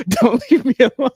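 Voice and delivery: high, loud, laughing mock whine; mock her plea through laughter; giggling imitation of a clingy kid. Mocking daughter's plea laughing.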